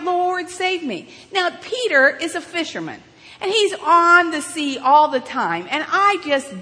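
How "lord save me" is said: a mild mock cry for rescue; retold cry for help. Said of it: "and he cried out".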